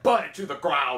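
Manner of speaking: drawn-out imitation of a commander; mock command. Quoting her to the gathered girls, slow mock command. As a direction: give a slow, put-on order.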